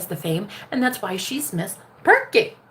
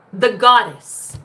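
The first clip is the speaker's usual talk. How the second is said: goddess hype; 7 dB louder, much slower than usual. Acted. Hyping the viewer as goddess.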